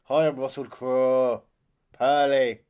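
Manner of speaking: hammy Irish brogue; Irish accent. Pretend. Mocking Russell Crowe's Irish accent.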